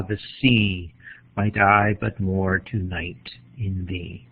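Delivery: measured poem reading, pausing at each line; poem read-aloud. Shown as a demonstration. Lecturer reads an Emily Dickinson poem to the class uninterrupted, poem read-aloud. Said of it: "just read this poem".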